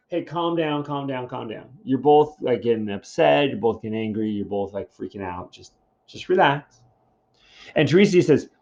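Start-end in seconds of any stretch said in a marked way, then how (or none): 0.1-6.8 hushing voice that fades away; settling two angry men, voice dropping to a hush; calming them down. Retold or imitated. Calming the quarrelling king and prophet.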